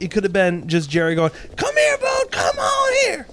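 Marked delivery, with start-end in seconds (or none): 1.6-3.3 high-pitched mock southern holler; southern accent. Imagining trainer Jerry calling the baboon, mock southern accent. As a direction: call out in an exaggerated southern twang. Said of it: "Jerry has a southern accent".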